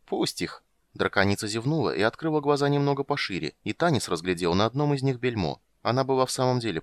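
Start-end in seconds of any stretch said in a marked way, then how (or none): 0.1-0.6 sleepy dragon. A narrator's reading. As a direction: murmur it, nearly asleep. (сонная драконица)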